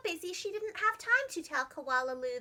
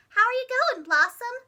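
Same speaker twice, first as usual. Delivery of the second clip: cheerful mother; 7 semitones higher, 8 dB louder than usual. Acted. Mother asks kindly.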